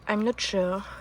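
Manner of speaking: English with a French accent; slow English in a French accent. Shown as a demonstration. Unsure gardener admits it to viewers, French-accented English. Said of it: "Avec un superbe accent".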